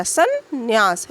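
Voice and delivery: संन्यास said slowly, each syllable sounded; careful spelling-out. Shown as a demonstration. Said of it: "ये बिंदी भी रहेगी और आधा ना भी रहेगा".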